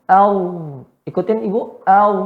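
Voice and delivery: "Au" ending in a held voiced buzz; vibrated ending. Shown as a demonstration. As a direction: buzz out the end of "Au", no puff of air. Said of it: "getarannya dia". ("Au" bergetar tanpa angin)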